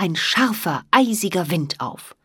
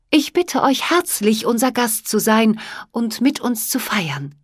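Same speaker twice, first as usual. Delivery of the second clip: gracious, higher queenly welcome; welcoming queen; 4 semitones higher than usual. Acted. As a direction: welcome him kindly like a queen. Fairy queen invites.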